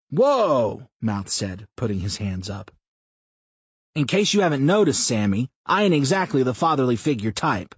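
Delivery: a foul-mouthed blowhard pitching an idea; crude loud man. A narrator's reading. Mouth pitches a rally to Sam, loud brash rough voice.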